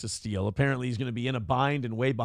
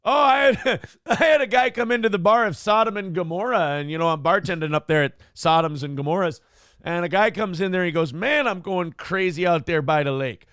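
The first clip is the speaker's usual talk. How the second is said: folksy bartender. Acted. Bartender character story.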